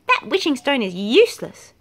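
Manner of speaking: monkey kicking the stone in a huff; angry shout. A narrator's reading. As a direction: yell it in disgust. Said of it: "shouted Monkey".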